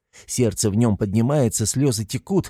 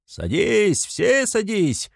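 high, slow yell; shouting; 11 semitones higher, much slower than usual. A narrator's reading. Mikolka calls everyone onto the cart, high slow shout. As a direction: wave them all in. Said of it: "кричит Миколка".

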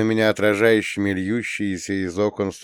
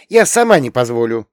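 frowning stubborn; 4 semitones higher, 8 dB louder than usual. A narrator's reading. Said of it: "насупила она бровки".

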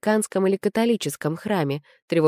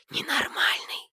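slow, breathy crowd whisper; 10 semitones higher, 6 dB quieter, slower than usual. A narrator's reading. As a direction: whisper it behind his back. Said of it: "шептались кругом". (шёпот)

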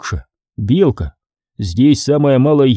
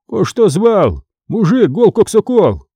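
raised, dismissive voice; scornful merchant; 8 semitones higher than usual. Acted. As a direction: scoff at the poor man. Merchant complains to scribe.

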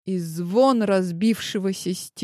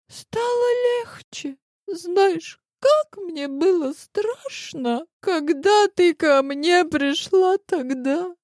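put-on high, slow, tearful girl; lightly tearful young rival; голос девушки; young girl's voice; 10 semitones higher, slower than usual. A narrator's reading. Rival girl confessing on phone.

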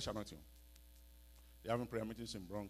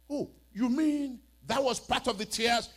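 surprised question; 12 semitones higher, 11 dB louder than usual. Acted. Voicing surprised listener.

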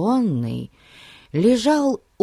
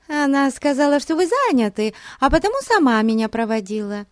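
chattering affected voice; 10 semitones higher than usual. A narrator's reading. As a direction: rattle it off in a simpering rush. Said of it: "затрещала в ответ гостья".

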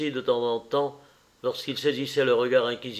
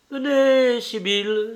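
loud, much higher impatient call; 10 semitones higher, 5 dB louder, slower than usual. Acted. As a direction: snap at her to come. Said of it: "dit le frère impatienté". (le frère impatienté, fort et aigu)

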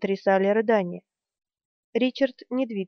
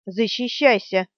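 frowning order. Acted. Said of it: "нахмурившись, приказала она".

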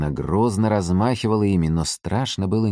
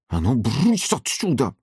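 growled shooing; 7 semitones higher, slower than usual. A narrator's reading. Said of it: "рычит фрау Мёршель".

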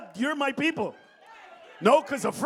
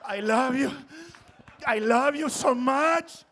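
mock adoring immigrant; 5 dB louder, slower than usual. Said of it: "what do you think about America?".

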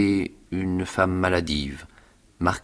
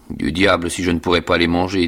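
menacing; 4 dB louder than usual. Acted. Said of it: "avec un hochement de tête menaçant".

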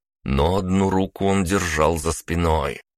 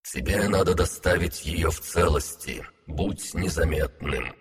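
underwater voice. Acted. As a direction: speak like a voice through water. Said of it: "как под водой, голос Артура".

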